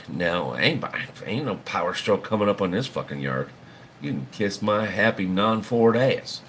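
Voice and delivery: a light put-on Southern accent, defiant; lightly voiced Southern twang, swearing off Power Strokes; Southern drawl. Telling viewers off about Fords in a mild Southern accent. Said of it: "I don't know why I went Southern".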